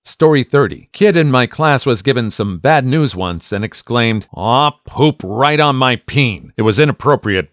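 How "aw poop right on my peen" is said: defeated. Retold or imitated. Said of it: "sounded so incredibly genuine and defeated".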